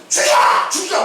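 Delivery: hammed-up yell, pitched high; mock screaming. Jonah screaming at God over the lost vine, mock screaming. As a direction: act out a screaming fit. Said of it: "하나님 보고 소리를 지".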